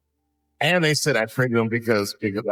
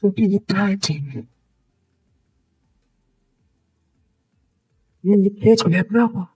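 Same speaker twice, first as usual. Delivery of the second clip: put-on higher, pleading kid; daughter's voice; 7 semitones higher than usual. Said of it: "she said".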